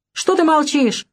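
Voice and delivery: a sudden, restrained mock yell; mild narrated yell. A narrator's reading. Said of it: "вдруг заорал он". (сдержанно изображённый крик)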